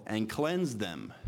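slow, drawn-out "cleanse" leaned on hard; stress on cleanse. Shown as a demonstration. Preacher pressing "cleanse" on the congregation, slow and stressed. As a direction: lean on "cleanse" and slow the phrase down. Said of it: "I keep emphasizing the word cleanse".

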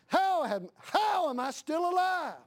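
high, rising cry to God; prayed wonder. Retold or imitated. Pastor retelling what he asks God about his own life, high and amazed. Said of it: "I think to my God".

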